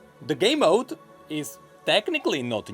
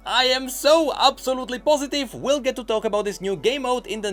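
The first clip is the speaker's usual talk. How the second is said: hammed-up hype, pushed higher at the start; mock excitement; 4 semitones higher than usual. News host feigning joy over a doubtful game mode, mock excitement. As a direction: gush with overdone, sarcastic certainty.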